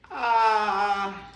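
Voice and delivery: loud, high open-mouthed ahh; saying ahh. Real, not acted. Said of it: "say, "Ah".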